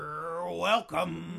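slow, drawn-out smug "You're welcome"; smug Vince McMahon voice. Acted. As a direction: gloat like a smug boss. Vince character smug entrance.

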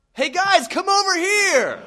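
high, loud holler across a room; gleeful-sounding mock summons at full voice; calling out. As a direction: shout to summon everyone, drawing it out. Doctor calls colleagues over.

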